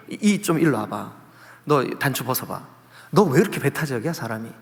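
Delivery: normal talking voice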